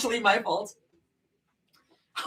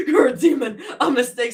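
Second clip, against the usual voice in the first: movie line quoted through laughter; laughing movie quote; 3 dB louder than usual. Retold or imitated. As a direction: quote the film while cracking up. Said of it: "quoting the movie".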